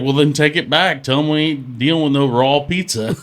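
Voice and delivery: lightly voiced irritated dad; exasperated dad. Friend retells dad sending daughter back for pizza, exasperated. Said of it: "he's like".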